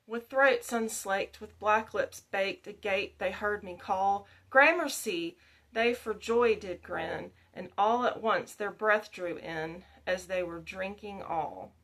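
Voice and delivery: measured, rhythmic verse reading; poem recitation. A narrator's reading. Teacher reads Coleridge's poem to learners, measured recitation. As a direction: recite it as a narrative ballad.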